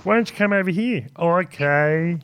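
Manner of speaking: high, softened come-hither voice; put-on creepy voice. Co-host acting a customer choosing between companies, in a creepy high voice. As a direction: coax in a high, odd put-on voice. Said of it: "thank you for the voice".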